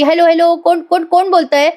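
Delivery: acted urgent hello; urgent phone demand. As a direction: grab the call and demand who it is. Priya snatches phone, demands caller's name.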